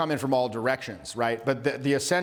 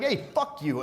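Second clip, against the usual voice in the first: mock yelling back; 6 semitones higher than usual. Accused coworker answering the rant, mock yelling back. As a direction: hurl it back in a play-acted argument. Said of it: "they kinda start yelling back".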